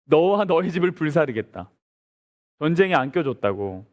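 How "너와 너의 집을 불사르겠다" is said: ordinary talk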